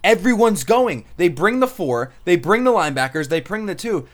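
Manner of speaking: walk him through it eagerly; excited explaining. Retold or imitated. Showing Rich the computer replay, excited explaining. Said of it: "I was like".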